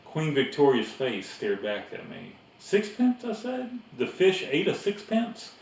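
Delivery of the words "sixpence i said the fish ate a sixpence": put-on higher boy's voice, rising in surprise; the boy, startled by the coin; boy amazed at a sixpence in a fish; surprised boy. A narrator's reading.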